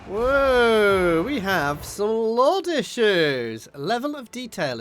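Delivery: sudden high startled whoa; surprised. Real, not acted. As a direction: caught off guard, loud. Startled by glitch on screen.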